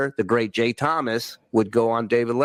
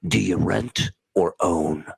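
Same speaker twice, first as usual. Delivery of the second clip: smug Alec Baldwin line; 6 semitones lower, slower than usual. Retold or imitated. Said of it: "And then he goes".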